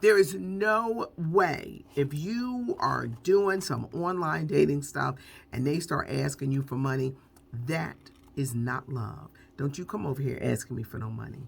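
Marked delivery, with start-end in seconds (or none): 9.6-11.4 low, fast, rattled-off, motherly scolding mutter. Speaking to listeners, the speaker slips into imitating their mom. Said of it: "I'm sounding like my mom".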